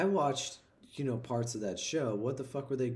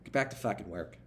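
Boston captain impression; 4 semitones lower than usual. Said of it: "your captain who is from Boston".

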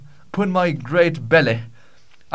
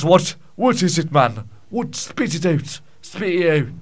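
higher, insistent Scottish demand; impatient urging; 4 semitones higher than usual. Acted. Nephew urges his tongue-tied uncle, impatient. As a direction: press him to get it out. Pressing the stalling uncle to speak.

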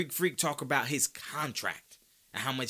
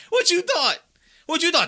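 loud, much higher mocking question; incredulous taunt; 9 dB louder than usual. Real, not acted. Taunting Harden, loud high disbelief. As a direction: fire it back at him, disbelieving.

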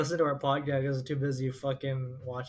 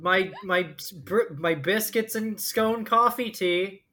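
mock British; 5 semitones higher, slower than usual. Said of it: "As the Brits do".

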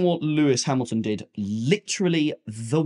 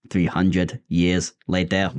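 slow dramatic documentary narrator; 5 semitones lower, much slower than usual. Pretend. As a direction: announce it like a film caption. Narrator joke while waiting.

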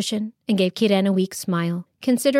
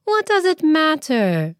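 soothing; 7 semitones higher than usual. Acted. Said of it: "she soothed".

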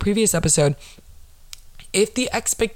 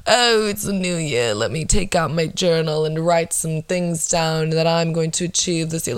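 contrived, facetious. Retold or imitated. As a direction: imitate someone making a show of journaling. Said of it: "It's just so contrived and facetious".

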